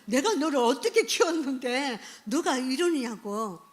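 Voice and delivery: half-acted flare of parental anger; exasperated parent scolding. Lecturer voicing a parent blowing up at a teen, mildly angry. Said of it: "뚜껑이 열리는 거예요".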